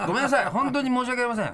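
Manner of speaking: high, loud laughing sorry; laughing apology. Real, not acted.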